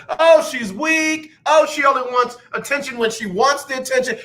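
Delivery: host mimicking Naomi Osaka's critics, mocking. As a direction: parody the haters with a sneer. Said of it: "folks have been coming for Naomi".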